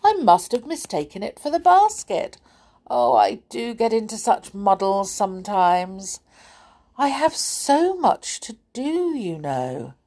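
a hint of a fussy goblin, puzzled.

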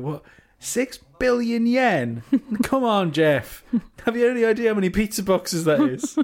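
high, incredulous outrage at a price; shocked receipt reader; mock outraged disbelief. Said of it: "looking at the receipt going".

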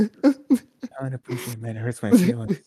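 high, loud, whiny mock sob; hammed-up hurt-feelings whine, drawn out at first; mock crying. Wrestler complaining that he's being talked about, mock crying. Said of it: "when he starts crying on live television".

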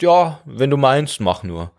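mock-tolerant lung tallying up the damage; passive-aggressive lung. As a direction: pretend to allow it through clenched politeness. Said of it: "Sie sagt".

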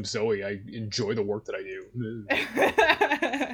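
slow, lightly mocking imitation; mocking Zoe. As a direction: parrot her smugly, slowly. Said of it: "look at me, I'm Zoe".

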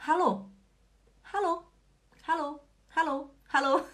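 cheerful hallo greetings; friendly hallo examples; greeting demo. Shown as a demonstration. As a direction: say hallo brightly. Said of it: "Você pode cumprimentar em alemão falando".

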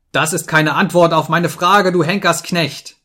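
high, furious accusation; shout of rage. A narrator's reading. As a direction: cry out in a fit of anger. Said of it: "schrie ich, vor Zorn zitternd".

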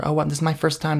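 fretting over her first try; nervous coworker voice. Acted. Nervous Carol at office potluck.

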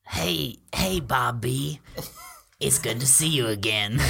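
loud greeting. Acted. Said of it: "he's like".

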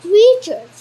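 loud bellow. Acted. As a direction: roar the question. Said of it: "he bellowed".

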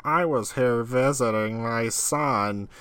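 slow, lightly voiced old lady; a hint of a frail granny, drawn out; Ernest as old lady. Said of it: "I'm trying to do an impression of Ernest impersonating an old lady".

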